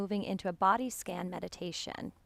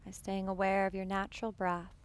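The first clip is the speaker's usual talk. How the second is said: calm, unhurried meditation voice with long pauses; guided meditation. Real, not acted. Yoga teacher settling students into breath awareness, guided meditation. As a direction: guide them gently into the breath, leaving space between phrases.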